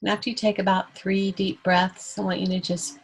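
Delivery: calm meditation guide with long pauses; guided meditation. Real, not acted. Host guiding everyone to let tension go, calm meditation voice. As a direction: lead them gently, leaving room to breathe.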